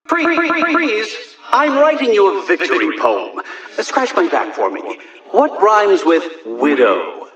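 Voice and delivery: loud, gloating villain shouts; shouting taunts. Acted. Villain yelling gloating taunts at the squad, loud. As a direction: bellow the taunts down the line.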